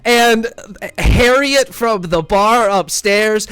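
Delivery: loud, slow, through laughter; laughing. Real, not acted. GM cracks up answering the player's question, laughing. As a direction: break up laughing mid-narration. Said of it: "Who the fuck is".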